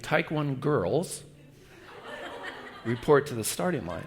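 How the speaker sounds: slow, spelled-out reveal; slow clarification. Shown as a demonstration. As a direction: say the announcer's call slowly so it is understood. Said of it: "He was saying".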